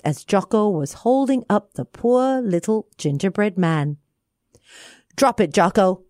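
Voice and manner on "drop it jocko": firm command. Acted. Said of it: "cried Bobby".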